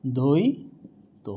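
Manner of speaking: অদ্বৈত very slowly, "doi... to" drawn out; syllable-by-syllable demo. Shown as a demonstration. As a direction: stretch অদ্বৈত with a rising "doi". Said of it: "তাহলে কি হবে".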